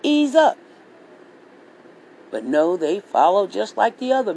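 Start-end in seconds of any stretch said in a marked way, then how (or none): 0.0-0.6 imitating the kids telling dad to ease up; higher, louder mock plea to dad; mock family plea. Kids telling their dad to ease up, mock plea. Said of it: "they would say".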